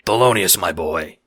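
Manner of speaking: a hint of a mob boss in a Godfather accent; understated fake Godfather accent. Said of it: "in a fake Godfather accent".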